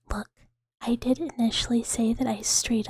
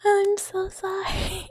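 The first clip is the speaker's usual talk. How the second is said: high, drawn-out apology breaking into laughter; laughing apology; 7 semitones higher than usual. Real, not acted. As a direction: apologize while losing it laughing. Apologizing while cracking up.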